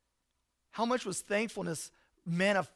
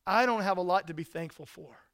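listener's complaint; 5 dB louder than usual. Retold or imitated.

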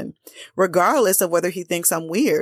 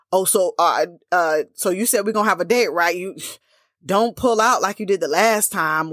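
hesitant, then quicker mock needling; passive aggressive. Woman reminding a man of his promised date, acted passive-aggressive. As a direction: needle him with a loaded question. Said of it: "we get passive aggressive and be like".

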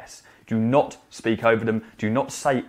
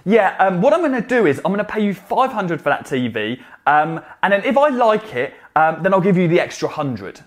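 mock haggling customer; 6 semitones higher, 5 dB louder than usual.

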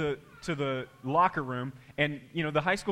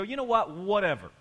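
careless shrug; 4 semitones higher than usual. Retold or imitated. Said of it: "we just go".

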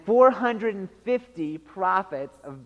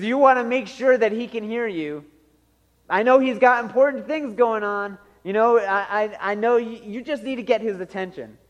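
mildly taunting fake advice; light sarcastic coaching; mocking Elijah; 3 semitones higher than usual. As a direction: offer mock-helpful encouragement, slightly higher. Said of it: "Elijah mocked them".

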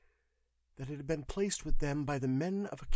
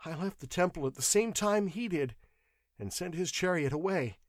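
high, plaintive confession; whimpering clerk; 8 semitones higher, 4 dB louder than usual. A narrator's reading. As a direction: plead pitifully in a raised voice. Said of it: "whimpering like a beaten dog".

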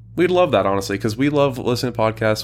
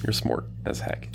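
whisper; 6 dB quieter than usual. Acted. Whispered reply to boast.

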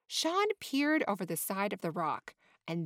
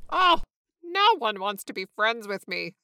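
dejected flamingo; 7 dB louder than usual. A narrator's reading. Dejected flamingo thinks aloud.

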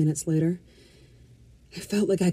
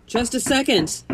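high, hurried-sounding call; shouted; 7 semitones higher than usual. A narrator's reading. Resident stalling whoever is knocking, high shout. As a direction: call out to someone behind the door. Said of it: "I shouted".

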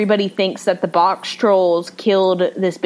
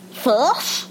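small creature squeak, pitched higher; Box Troll voice; 5 semitones higher, 3 dB quieter than usual. Retold or imitated. Podcaster imitating a Box Troll for her co-host, creature voice. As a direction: squeak it like a little cave troll. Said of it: "They, they talk like this".

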